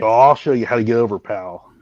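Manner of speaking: lightly imitating a meddling boss; a hint of a know-it-all boss; Vince. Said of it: "Vince has gotta stick his fucking hands".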